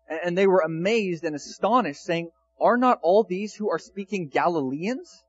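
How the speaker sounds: scripture reading. Acted. Pastor reading the crowd's amazement from Acts, measured scripture reading. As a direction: lay out each nation name deliberately. Reads verse seven onward.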